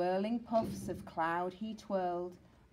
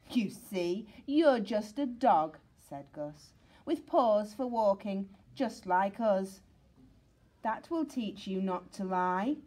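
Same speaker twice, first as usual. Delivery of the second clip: mocking bully; 4 dB louder than usual. Gus mocking Sid.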